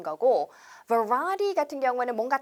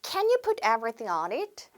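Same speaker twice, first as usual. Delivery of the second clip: very slow rising question, stress on you; slow model question; much slower than usual. Shown as a demonstration. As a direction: model the request slowly for repeating. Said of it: "한 번 더". (천천히 끝을 올리는 시범 질문)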